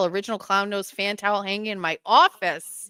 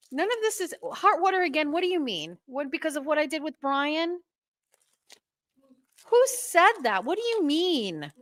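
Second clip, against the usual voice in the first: much higher, incredulous questioning; indignant disbelief; 8 semitones higher than usual. Real, not acted. Challenging whoever warned her, high and indignant. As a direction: demand an explanation, pitched way up. Challenging the warning she read.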